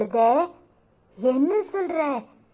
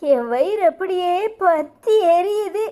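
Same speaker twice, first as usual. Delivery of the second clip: crying lament. Acted. Mother lamenting daughter's hidden illness.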